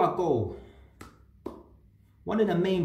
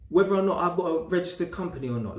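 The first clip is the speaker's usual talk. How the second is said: higher-pitched indignant questioning; exasperated imagined comeback; indignant challenge; 4 semitones higher, 3 dB louder than usual. Retold or imitated. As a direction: challenge them, acting out an unspoken retort. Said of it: "I didn't say it, but I'm like".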